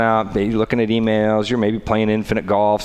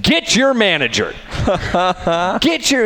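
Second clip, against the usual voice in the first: imitating angry wife; 9 semitones higher than usual. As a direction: bark it like an angry mom at the window. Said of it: "And my wife's like".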